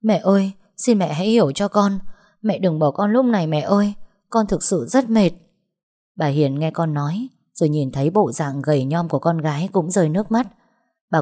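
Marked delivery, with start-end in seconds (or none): 0.0-5.3 tearful pleading. Acted. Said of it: "ôm chặt lấy chân mẹ mà khóc".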